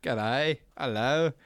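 put-on British or Aussie greeting; playful accent, lightly done; mock accent. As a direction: try out accented hellos. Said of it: "got that British accent".

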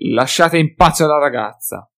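mimicking in a squeaky voice, consonants mangled; mocking shrill voice. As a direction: ape his words like a jeering drunk. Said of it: "con voce stridula, storpiando le consonanti".

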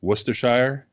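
Worcestershire said WUSS-ter-shyer, English style; Worcestershire ending in shyer; English pronunciation. Shown as a demonstration. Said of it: "So, like, in England".

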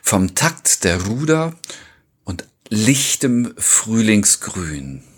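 slow, measured podcast intro read; episode title announcement. Acted. Host opens the poetry podcast for listeners, measured title announcement. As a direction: announce the titles slowly, with pauses.

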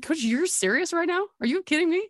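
can't believe he means it; incredulous. Retold or imitated. Disbelief at Stacy coming.

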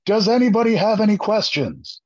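a hint of a drill instructor daring anyone to ask; R. Lee Ermey. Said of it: "I go full R. Lee Ermey".

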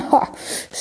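quick amused chuckle; a small laugh at the boy's worry; short breathy laugh. Acted. Skymaker laughing at Emir's too-much-of-a-good-thing problem, short chuckle.

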